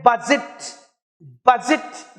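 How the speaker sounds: "बजट" with the weight on ब; BUH-jit for "बजट"; stress on first syllable. Shown as a demonstration. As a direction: lean on ब in "बजट", keep जट short. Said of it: "देखो stress ब पे है".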